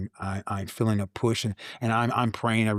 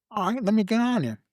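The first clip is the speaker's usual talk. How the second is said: eager; 13 semitones higher than usual. Retold or imitated.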